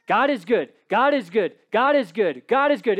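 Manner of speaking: "God is good" pounded out like a drumbeat; rising preacher's refrain; drumbeat repetition. Shown as a demonstration. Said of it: "a drumbeat repeated throughout".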